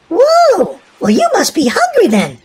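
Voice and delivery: a mother's amused interruption; mock surprise. Mom reacts to Willy's list.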